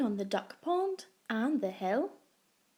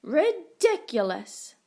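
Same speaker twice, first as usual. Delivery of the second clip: mocking dog; 4 semitones higher, 7 dB louder, slower than usual. A narrator's reading.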